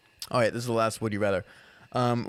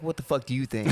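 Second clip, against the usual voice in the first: laughing retort. Pretend. Tall guy asked inside or outside.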